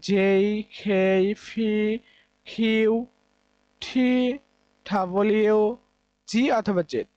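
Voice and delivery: জেই, খেই, ফি said slowly and deliberately, one by one; slow list of model pronunciations; careful recap. Shown as a demonstration. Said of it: "যেগুলো red colour করে দিলাম". (ধীরে ধীরে সঠিক উচ্চারণ)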